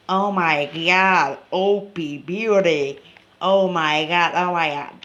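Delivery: loud, thrilled exclamations; shrieking jackpot winner. Real, not acted. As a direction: yell it like you just hit the jackpot. Big in-game win, loud.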